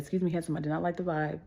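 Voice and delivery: soft, polite retold rejection; courteous. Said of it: "Trying to be as courteous as I could".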